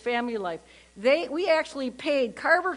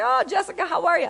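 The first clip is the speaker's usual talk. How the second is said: mock-cheery greeting; 6 semitones higher, faster than usual. Faking recognition on the phone.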